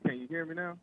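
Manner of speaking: distant, muffled phone caller; calling from far off the mic. Real, not acted. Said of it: "You sound s-, so far away".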